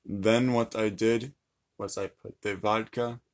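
measured mock Russian accent. Shown as a demonstration. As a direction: deliver it as a Russian would. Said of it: "tell me in Russian accent".

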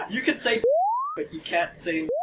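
high giggly speech through laughter; giggling. Real, not acted. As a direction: say it while cracking up. First take, laughing.

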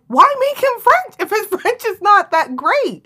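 high, slow mock complaint; mock French viewer. Host imitating French-speaking viewers, high and slow. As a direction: pitch it up like a puzzled viewer. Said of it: "they were kinda like".

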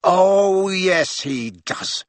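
sudden high, angry flare; flaring up. Acted. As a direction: flare up at him. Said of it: "flaring up at Harry".

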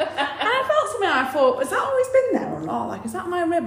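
nervous laugh. Real, not acted. Nervous laugh recounting finding lump.

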